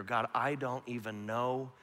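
soft, quiet pleading prayer; quiet desperate prayer in a dorm room; hushed prayer. Retold or imitated. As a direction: pray it low, alone on your knees. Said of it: "I just prayed this prayer".

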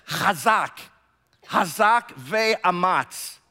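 chazak with a throaty ch, ve'amatz slow and clear; Hebrew pronunciation. Shown as a demonstration. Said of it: "you pronounce it like this".

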